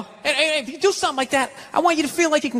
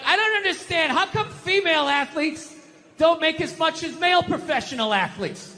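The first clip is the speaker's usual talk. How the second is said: mock whining; 5 semitones higher than usual. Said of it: "she starts bitching, going like".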